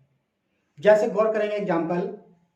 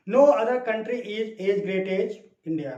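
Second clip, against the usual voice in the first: slow model sentence; much slower than usual. Retold or imitated. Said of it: "वह इसे positive में कह रहा है".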